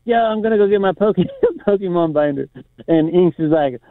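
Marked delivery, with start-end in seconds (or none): 0.0-2.5 put-on high, excited kid voice, laughing through it; mock kid shout breaking into a laugh; kids yelling. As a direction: call out like an eager thirteen-year-old at the park. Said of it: "All these kids yell out".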